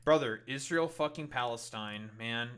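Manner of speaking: Brother, Israel fucking Palestine punched out loud; loud retort. Real, not acted. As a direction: fire it back hard. Fires back a counter-argument loudly.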